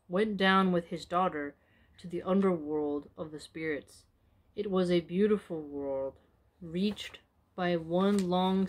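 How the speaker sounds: steady storyteller voice, unhurried; story narration. A narrator's reading. Storyteller recounting Kamush's underworld journey, measured narration.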